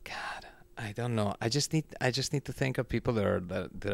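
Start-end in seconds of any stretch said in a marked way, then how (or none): 0.0-1.3 a soft whisper to himself; whispered aside. Real, not acted. Guest stumped picking talent, whispering to himself. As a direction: breathe it out unvoiced while thinking. Stuck choosing, mutters to self.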